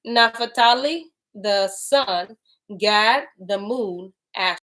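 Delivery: slow, measured reading aloud; deliberate scripture recital. Acted. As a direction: read the holy text with weight. Reads scripture aloud slowly.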